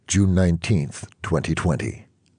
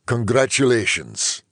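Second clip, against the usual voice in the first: higher-pitched, pleased doctor; happy congratulations; 8 semitones higher than usual. A narrator's reading. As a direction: congratulate with a smile in the voice. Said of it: "said with a happy crinkle".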